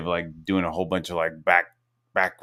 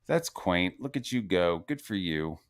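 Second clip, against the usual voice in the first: dry mock praise; 3 semitones lower, 7 dB quieter than usual. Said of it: "I was like".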